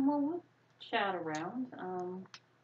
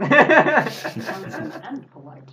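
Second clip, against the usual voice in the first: mock vain charmer; 6 semitones higher, 17 dB louder, much slower than usual. Mocking his polite character.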